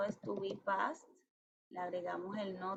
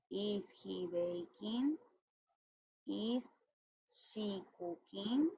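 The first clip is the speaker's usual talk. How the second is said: slow model question; much slower than usual. Shown as a demonstration. Teacher models English questions.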